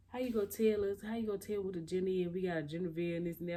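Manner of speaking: mock indignant questioning; retold protest. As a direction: imitate a boyfriend protesting, words tumbling out. Boyfriend protests about surprise.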